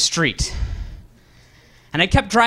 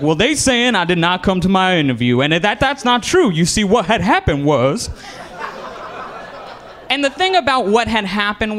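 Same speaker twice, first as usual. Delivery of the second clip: caller making excuses; 2 semitones higher than usual. Retold or imitated. Job applicant explaining a missed interview, mildly put-on excuse voice. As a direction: act out a caller protesting his case.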